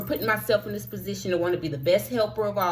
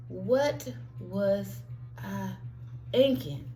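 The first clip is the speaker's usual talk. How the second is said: self-reproach; 6 dB quieter, slower than usual. Retold or imitated. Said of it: "and asking".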